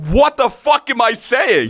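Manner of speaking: high, slowed self-disbelief; appalled at your own mouth; acted panic. Thinking to himself while challenging a fight, mock alarm.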